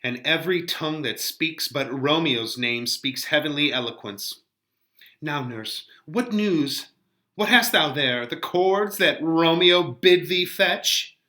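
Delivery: lightly voiced Juliet, eager for news; Juliet read aloud. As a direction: ask the nurse for news, hopeful. Teacher reads Juliet's lines aloud.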